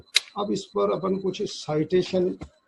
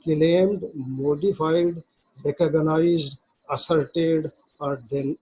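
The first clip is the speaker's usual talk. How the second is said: slow, deliberate reading of legal text; slow statute reading; much slower than usual. Shown as a demonstration. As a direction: read the act slowly, word by word, as if dictating. Reads statute text aloud. (धीमे-धीमे क़ानून की धारा पढ़ना)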